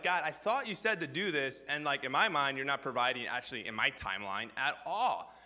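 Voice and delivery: mildly upset complaint; acted-out frustrated prayer. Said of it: "you're just upset".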